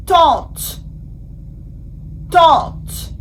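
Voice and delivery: "Tente" said in French with a nasal vowel, falling; careful French pronunciation. Shown as a demonstration. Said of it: "Now that we have seen the sound O".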